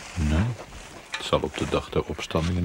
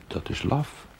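whisper; 10 semitones higher than usual. Acted. Ghostly figure mocks the chaplain.

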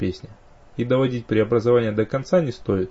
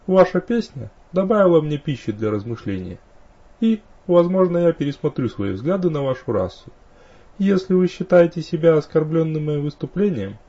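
higher, lilting elven voice; courtly, melodious dark elf; 6 semitones higher than usual. Acted. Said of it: "Мелодичный голос тёмного эльфа".

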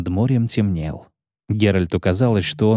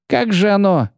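startled clerk; 10 semitones higher than usual. Acted.

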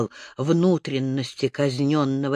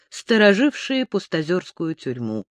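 ordinary delivery, nothing marked

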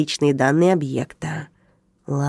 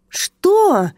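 loud high furious bark; 13 semitones higher, 3 dB louder than usual. A narrator's reading. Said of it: "рявкнул Одноглазый". (громкий злой рык)

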